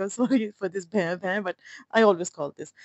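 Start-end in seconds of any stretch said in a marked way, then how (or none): 0.0-1.4 mock harmonium drone. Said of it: "میں بیچ میں بھیں بھیں بجتا رہوں گا".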